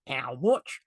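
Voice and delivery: flat Yorkshire "How much?" with a rising end; a blunt Leeds buyer asking the price; Leeds accent. Shown as a demonstration. A client in a meeting balking at the price, in a Leeds accent. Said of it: "Did you like that accent".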